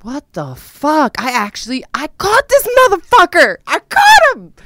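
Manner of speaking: exploding with disbelief at the discovery; shocked outrage. Retold or imitated. Finding his girlfriend's photos, she shrieks in shocked outrage. Reenacting catching cheating boyfriend.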